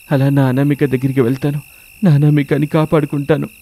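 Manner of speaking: lightly voiced young husband thinking aloud; anxious searching husband. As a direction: think aloud with a touch of worry. Narrator voices searching husband Ramesh. (కాస్త ఆందోళనగా తనలో తాను ఆలోచించే భర్త)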